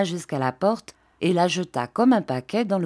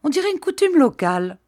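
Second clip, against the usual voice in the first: higher, quick amused remark; smiling; 9 semitones higher, 4 dB louder, faster than usual. A narrator's reading. Priest joking to the baron, smiling. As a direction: say it quickly with a smile.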